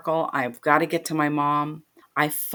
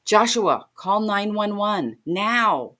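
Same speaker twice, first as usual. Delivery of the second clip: slow, firm, higher insistence; urgent command; 4 semitones higher, slower than usual. Retold or imitated. Aunt ordering her nephew to call 911, urgent and slow. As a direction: spell it out so he obeys.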